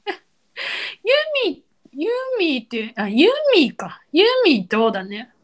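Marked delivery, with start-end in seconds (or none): 0.1-1.6 ユーミー stretched out high and very slowly; testing ユーミー high and drawn out; trying the name. Shown as a demonstration. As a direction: sound out ユーミー high and slow. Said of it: "不自然やもん".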